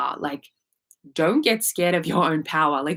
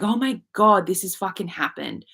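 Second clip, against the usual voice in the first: mock freak-out. Mocking her old self reacting to big news, half-hearted panic. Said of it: "an old version of me would have freaked out".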